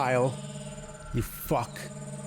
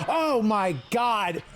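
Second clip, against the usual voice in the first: drawn-out, raised exasperated groan of words; 4 semitones higher, much slower than usual. Real, not acted. Gamer failing at a puzzle, exasperated. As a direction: stretch it out in disbelief. Exasperated while playing the game.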